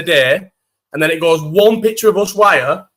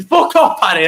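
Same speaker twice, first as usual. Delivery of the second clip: laughing retort; 7 semitones higher, 4 dB louder than usual. Real, not acted. Laughs at friend's teasing.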